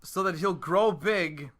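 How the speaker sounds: stately mild Walken cadence; a hint of Christopher Walken. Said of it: "more Christopher Walken-ish".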